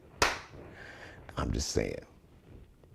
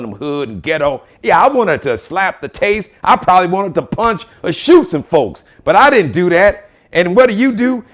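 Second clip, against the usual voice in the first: imitating Richard Williams; 3 semitones higher, 3 dB louder than usual. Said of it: "He's like".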